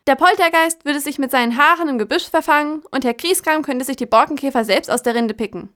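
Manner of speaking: hohe, empörte Krähenstimme; sich in Rage krächzen. Acted. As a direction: immer aufgebrachter werdend krächzen. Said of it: "krächzte sich in Rage". (wütend krächzende Krähe)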